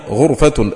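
غرفة said ghurfa, u after the gh; غرفة بضم الغين، "غُرفة"; ghurfa with damma. Shown as a demonstration. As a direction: voice غرفة with a short u on the first letter. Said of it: "بضم الغين".

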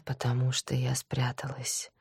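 soft whispered confession; whispering. Acted. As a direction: whisper like you're still hiding. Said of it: "прошептала Маша".

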